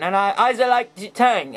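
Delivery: badly faked German accent. Blitzwing squabbling with himself over alt modes, German accent. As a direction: argue in a put-on German accent. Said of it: "I can't do a German accent".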